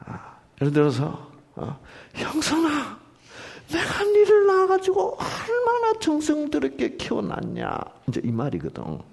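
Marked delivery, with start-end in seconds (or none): 2.1-7.8 high, gentle doting mother; tender mother. Shown as a demonstration. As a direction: coo it like a fond mother. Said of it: "다르게 읽을 수 있습니다".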